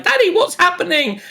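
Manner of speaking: put-on high, worried child's voice; =ask like a scared little girl. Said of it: "And she starts crying".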